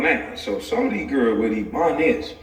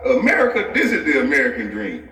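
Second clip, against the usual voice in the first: laughing proclamation. Real, not acted. Proclaiming the American dream while laughing.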